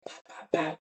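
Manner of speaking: understated "bah" gunfire imitation; imitated gunshots. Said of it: "and I hear".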